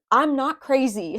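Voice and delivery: slow, pleading insistence, voiced for someone else; insistent protest. Reader voices what Leos are feeling, slow insistent protest. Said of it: "you guys are like".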